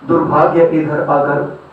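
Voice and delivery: declaimed verse, pausing between phrases; poetry recitation. Acted. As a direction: recite philosophical verse, letting each line land. Recites philosophical poems to audience.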